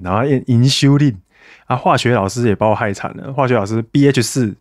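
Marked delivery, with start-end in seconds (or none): 0.4-1.2 "insulin" with a shiu middle syllable; teacher's insulin pronunciation. Retold or imitated. Recalling biology teachers, "insulin" as in-shiu-lin. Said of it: "像生物老师啊，念胰岛素都会念什么".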